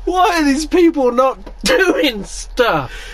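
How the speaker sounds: loud, high and drawn out in disbelief; who gives a — let it rip, slowly; exasperated outburst. Real, not acted. Friend hearing petty comments, exasperated and loud.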